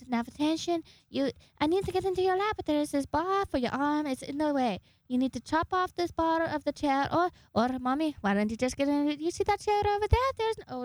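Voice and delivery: put-on high, childlike whining pet voice; Choo Choo speaking voice. Pet begging mommy for attention, high needy voice. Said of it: "That's her speaking voice".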